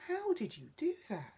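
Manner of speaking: high, loud amazed question; excited high child's voice. Acted. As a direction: gasp it out in wonder. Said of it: "Emma was amazed".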